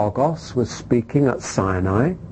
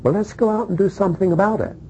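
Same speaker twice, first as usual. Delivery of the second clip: urgent call; 8 semitones higher, much faster than usual. Acted. Urging action in sermon.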